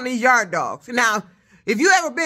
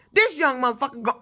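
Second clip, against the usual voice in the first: ordinary talk, nothing marked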